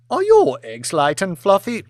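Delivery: pointed question. Acted. Lady quizzing guests.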